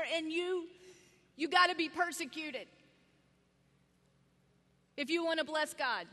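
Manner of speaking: mock stern list of demands; hammed-up lecturing of must-dos; demanding preacher. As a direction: rattle off the gottas like a scolding preacher. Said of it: "it always came to me like this".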